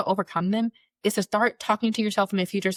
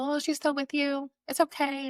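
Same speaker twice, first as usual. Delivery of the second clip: much higher, syrupy mock sympathy; sugary condolence; 8 semitones higher, 4 dB quieter than usual. People consoling her after mother's death, syrupy mock. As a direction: coo it sweetly and hollowly.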